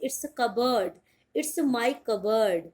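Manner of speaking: "cupboard" as kub-ed, no p or r; slow it's my cupboard, silent p; correct pronunciation. Shown as a demonstration. Teacher to students, cupboard with no p. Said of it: "आर भी नहीं बोलना है".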